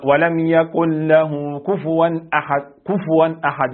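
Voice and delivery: "كفوا" recited slowly, the fa with a full u; slow recitation demo. Shown as a demonstration. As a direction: lay out "كفوا أحد" slowly as a model. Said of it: "يبقى حتى إيه". (تلاوة بطيئة لكفوا بضم الفاء)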